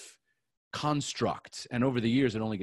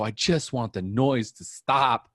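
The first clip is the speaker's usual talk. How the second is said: tearful plea; 2 semitones lower than usual. Real, not acted. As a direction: really close to tears, slow. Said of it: "I was crying just like I am right now".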